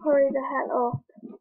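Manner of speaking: slow, close to tears; tearful frustration. Real, not acted. Begging her slow computer while afraid of getting hacked, tearful. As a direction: plead with the loading screen, voice cracking. Waiting, fearing account hacked.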